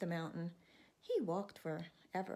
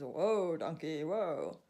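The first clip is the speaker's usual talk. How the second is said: much louder, slow booming whoa; burly blacksmith shout; 8 dB louder, much slower than usual. Acted. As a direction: bellow it like a big burly man. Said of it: "big burly guy that he is".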